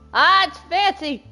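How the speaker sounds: loud, high burst of delight; real excited delight. Real, not acted. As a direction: exclaim it loudly, thrilled by the reveal. Reacting to the revealed uniform.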